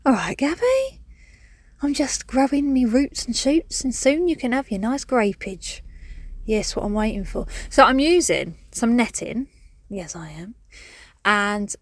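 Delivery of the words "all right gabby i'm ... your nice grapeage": lightly voiced cheeky plant, a bit higher; cheeky grapevine voice. Grapevine peeking through the back door at Gabby, cheeky and higher. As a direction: play the vine popping in for a chat. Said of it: "be like".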